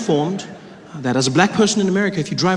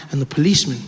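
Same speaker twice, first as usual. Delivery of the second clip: ordinary talk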